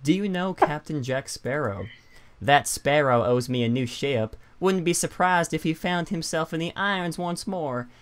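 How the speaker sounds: lightly voiced pirate, Forrest Gump-like; a hint of a swaggering pirate. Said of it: "that's not pirates. That's Forrest Gump".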